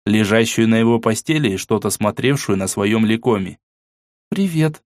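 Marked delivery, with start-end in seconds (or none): 4.3-4.8 shy. A narrator's reading. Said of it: "как-то застенчиво произнесла она".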